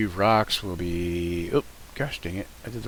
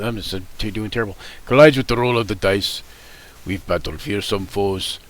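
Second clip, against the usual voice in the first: put-on Russian accent; 3 semitones lower than usual. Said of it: "I'm doing terrible at this Russian accent".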